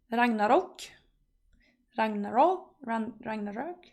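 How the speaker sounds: Ragnarok with a short o ending; tentative RAGNAROK, as it's spelt; as written. Shown as a demonstration. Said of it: "Norwegians say it's like it's written".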